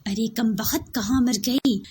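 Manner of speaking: loud cursing call; angry curse. Acted. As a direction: curse the missing girl out loud. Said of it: "गुस्से से भरी आवाज". (चिल्लाकर कोसना)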